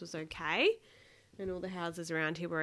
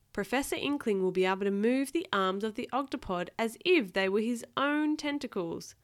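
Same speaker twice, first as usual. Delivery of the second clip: louder, animated storybook reading; reading to a child; 4 dB louder than usual. A narrator's reading. Parent reading Octonauts aloud to a child, lively storytelling. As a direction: act out each exclamation for a small listener. Reads picture book to child.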